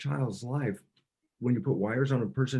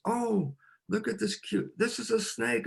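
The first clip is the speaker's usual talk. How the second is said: delighted mother; 9 semitones higher than usual. Retold or imitated. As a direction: coo over the snake like it's cute. Biologist mother delighted by snake.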